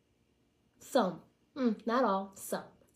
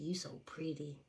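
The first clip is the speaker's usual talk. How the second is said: creepy whisper; 4 semitones lower, 11 dB quieter than usual. Retold or imitated. Imitating old man's creepy line.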